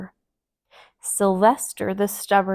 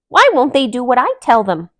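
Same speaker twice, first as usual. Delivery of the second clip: frustrated; 3 semitones higher, 11 dB louder than usual. A narrator's reading. Delilah frustrated.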